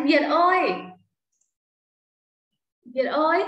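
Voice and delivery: calling out. Real, not acted. Teacher calling a pupil by name.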